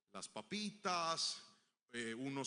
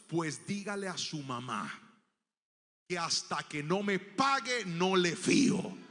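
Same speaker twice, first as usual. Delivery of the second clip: stern refusal; 7 dB louder, slower than usual. Retold or imitated. Shopkeeper refuses credit coldly.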